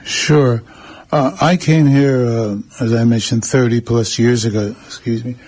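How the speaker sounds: morning voice, a bit rough; real morning voice before clearing throat; just woke up. Real, not acted. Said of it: "My morning voice".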